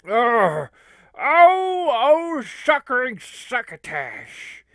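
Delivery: loud, high comic wail; hammed-up cry of dismay; mock anguish. Onlooker lamenting the heel turn, loud mock anguish.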